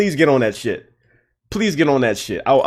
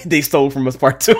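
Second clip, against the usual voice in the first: laughing; 4 dB louder than usual. Retold or imitated. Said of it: "I'm like".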